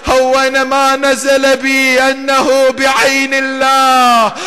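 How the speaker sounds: anguished cry. Acted. Imam over his slain infant, anguished outcry. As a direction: cry it out fast, pleading to heaven.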